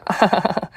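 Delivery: a quick sheepish laugh; embarrassed laugh. Acted. Mother-in-law laughs, understanding.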